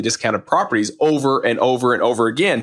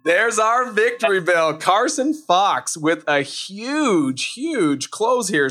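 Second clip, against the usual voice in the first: excited; 5 semitones higher, slower than usual. Real, not acted. Celebrating a big deal.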